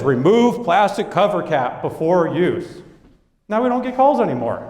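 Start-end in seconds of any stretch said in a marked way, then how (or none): 0.0-2.8 slow, deliberate label reading; reading the new box label slowly. Shown as a demonstration. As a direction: spell out the instruction slowly. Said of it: "Now it says".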